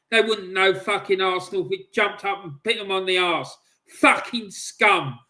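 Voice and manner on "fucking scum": angry. Real, not acted. Fan cursing the regime.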